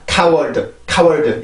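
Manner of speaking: 카워드 in even Korean syllables with a full final 드; Korean-style 카워드, each syllable sounded out; wrong pronunciation demo. Shown as a demonstration. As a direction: say 카워드 flatly syllable by syllable, no scraped k. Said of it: "이런 게 아니라".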